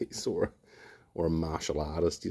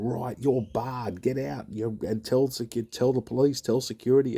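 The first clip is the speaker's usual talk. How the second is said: mock barmaid order; 8 semitones higher than usual. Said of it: "she's just gone".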